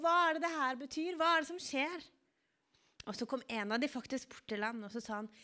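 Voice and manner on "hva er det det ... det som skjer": higher, louder questioning call from the storyteller; acted-out shout to passers-by; retold calling out. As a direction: call out the questions, moderately raised. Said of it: "så ropte han og lurte på".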